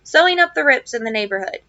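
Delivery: reading a novel aloud to the class, steady and clear; story narration. Acted. Teacher reading a chapter aloud to students, story narration. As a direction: tell the old gardener's story as you read it.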